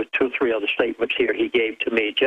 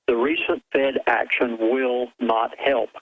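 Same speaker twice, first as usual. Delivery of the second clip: slow, deliberate; slower than usual. Real, not acted. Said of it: "I'm gonna say it slowly".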